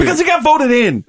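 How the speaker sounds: very high squeaky defence; squeaky joke voice. Acted. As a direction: squeak it out in a silly falsetto. Absurd defence of Mecha Hitler.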